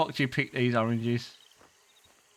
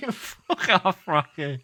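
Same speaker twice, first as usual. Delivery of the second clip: laughing; much slower than usual. Real, not acted. Laughing at game dialogue again.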